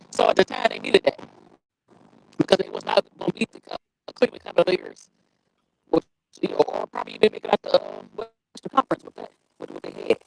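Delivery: breaking up on a call; muffled, cutting out phone line. Real, not acted. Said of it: "but you sound muffled".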